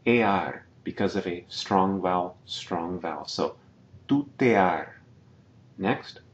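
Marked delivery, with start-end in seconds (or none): 4.1-4.9 tutear with e and a split apart; syllables separated. Shown as a demonstration. Teacher repeats tutear, vowels split apart. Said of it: "we're separating now".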